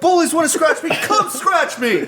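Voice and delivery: high, drawn-out challenge, slow and loud; mock taunt. Mocking ghost-hunters, daring bullies with a slow high taunt. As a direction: dare the ghosts, stretching every word.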